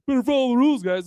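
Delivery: mock a prim rule follower; rule-following kid. Comedian mocking white-milk kids turned cops, goody-goody voice. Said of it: "They're just like".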